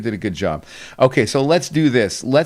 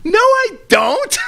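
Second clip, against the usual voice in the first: high, loud and slow mock protest; mock exclaim; 5 dB louder, much slower than usual. Host replaying his reply to his cousin, high and loud. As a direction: cry out in playful denial. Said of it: "I was like".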